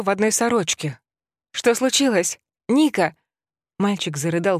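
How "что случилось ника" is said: alarmed, raised mother's call; startled and scared, calling her son; frightened cry. Acted. Mother wakes to screaming son. (испуганный оклик)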